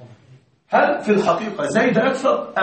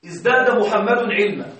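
slow example read. Shown as a demonstration. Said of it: "الجملة الأولى هنا".

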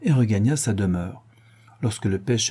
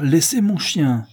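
higher, louder, slow command; shouted; 6 semitones higher, 5 dB louder, slower than usual. A narrator's reading. Doctor orders the boatman to free his dog, slow shout. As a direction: bark it out to save the dog. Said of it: "cria le docteur".

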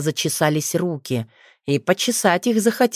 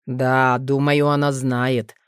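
reassuring; 4 semitones lower, slower than usual. Acted. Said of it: "успокоил он сына".

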